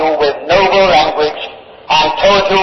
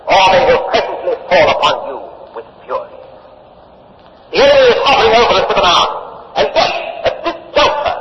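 urgent fiery oration; faster than usual. Acted. Cato urging the Senate to vote.

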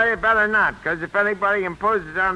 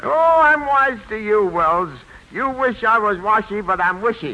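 raised, louder comic bluster; blustering defiance; 3 dB louder than usual. Acted. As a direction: stand up to the boss with raised voice. Newly tough man defies his boss.

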